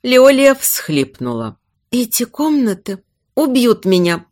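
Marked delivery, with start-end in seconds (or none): 1.9-4.2 mildly shivery dread; hushed, frightened plea; whispered, teeth chattering. Acted. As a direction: murmur it as if chilled with fear. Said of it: "прошептала, стуча зубами".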